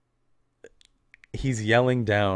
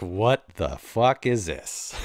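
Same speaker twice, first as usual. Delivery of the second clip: slow, laughing what-the; drawn out through a laugh; mock future self, laughing; laughing disbelief; slower than usual. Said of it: "read it and be like".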